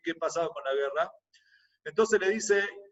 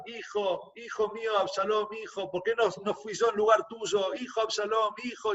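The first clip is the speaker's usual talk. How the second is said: retold lament; 4 semitones higher than usual. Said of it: "empieza a gritar".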